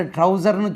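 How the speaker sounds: ட்ரவுசர்னு as singular "trouser", no final s; ட்ரவுசர்னு cited with the final s missing; wrong form. Shown as a demonstration. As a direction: show the faulty ட்ரவுசர்னு without its plural ending. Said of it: "சொல்லக்கூடாது".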